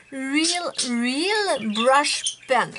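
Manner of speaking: "Real Brush Pen" drawn out very slowly, carefully sounded; struggling pronunciation. Real, not acted. Vlogger struggling with an English product name, painstaking pronunciation. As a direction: labour over each word of "Real Brush Pen". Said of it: "j'ai de la misère avec ce mot-là".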